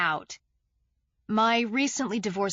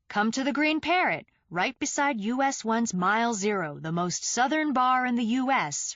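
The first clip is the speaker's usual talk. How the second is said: bright, higher ad announcer read; ad banner pitch; 4 semitones higher than usual. Acted. Banner ad calling readers to the bar, upbeat announcer read. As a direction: sell it like a bar ad. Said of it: "read its ad banner".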